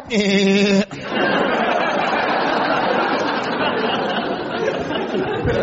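drawn-out mock Cockney cackle; cheeky Cockney laugh. Comedian mimics Cockney's laugh after dropped H's, exaggerated cheeky laugh. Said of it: "cheeky laugh they do at the end of their sentences".

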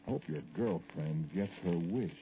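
slow retold parting jab, lightly sweetened; understated false sweetness, dropping on the last word; mock sweetly. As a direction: quote the wife's sugary farewell, drawing it out. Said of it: "Oh, very sweetly".

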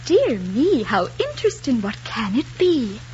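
play-acted demure surprise; mock wonder, slowing at the end; coy reply. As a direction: feign innocent curiosity at a suitor's words. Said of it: "Then I would say".

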